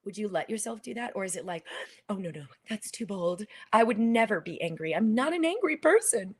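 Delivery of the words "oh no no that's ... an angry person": mock prim denial. Mimics someone refusing to express anger.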